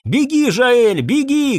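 very high panicked scream; desperate shouted warning. A narrator's reading. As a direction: yell for him to run. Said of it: "кричала она".

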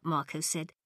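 ordinary delivery

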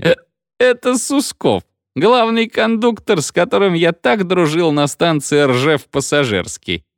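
high-pitched, drawn-out joyful greeting; joyful shouting. A narrator's reading. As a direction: exclaim high, overjoyed at an old friend. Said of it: "багровая и радостная, растопырила руки и закричала".

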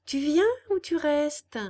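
pressing. A narrator's reading. Little man pressing Pinocchio to choose, insistent. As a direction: hurry him to decide.

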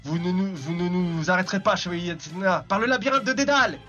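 lightly voiced gloating villain; a hint of a sneering bad guy; slow theatrical villain menace. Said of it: "une voix de méchant".

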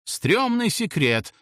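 high, drawn-out call without much volume; mild narrated outcry; grandpa's shouted guess. A narrator's reading. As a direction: shout it out slowly, lightly. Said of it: "выкрикнул дедуля".

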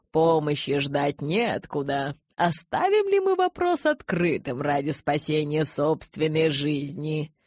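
drawn-out rhetorical question; clear oratorical voice. A narrator's reading. Elder rousing his followers with questions, clear oratory. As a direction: orate to the followers, stretching the words. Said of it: "Ясным голосом обратился он к своим".

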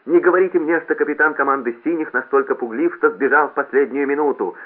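loud, high mocking announcement; straining public jeer; sarcastic straining. A narrator's reading. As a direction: taunt him over the loudspeaker. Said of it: "саркастически надрывался громкоговоритель".

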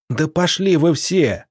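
high, drawn-out defiant yell. A narrator's reading. Nikita cursing the whole crowd, yelling. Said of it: "заорал Никита".

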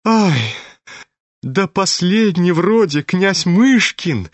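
high, drawn-out hollering; crowing yell of astonishment; wailing cry. A narrator's reading. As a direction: whoop it out, high and slow. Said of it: "завопил Фердыщенко".

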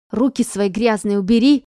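громкий злой отпор; огрызнись на толкнувшую; огрызаясь. A narrator's reading. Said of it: "огрызнулась". (Иванова огрызается на Петрову)

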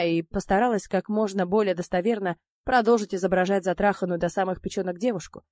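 ordinary delivery, nothing marked

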